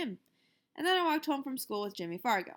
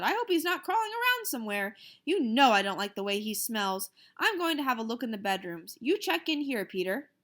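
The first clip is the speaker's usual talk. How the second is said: mother; 2 semitones higher, 4 dB louder than usual. Acted. Mother voiced in story.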